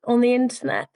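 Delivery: high, drawn-out, sheepish question; embarrassed client. Retold or imitated. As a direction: imitate a client gingerly asking something awkward. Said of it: "puts that person in a slightly embarrassing situation".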